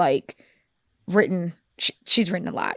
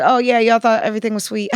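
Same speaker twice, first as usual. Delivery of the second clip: quick taunt ending in mock laughter; faster than usual. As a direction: gloat at them, then laugh it off. Voicing the author mocking complacent readers.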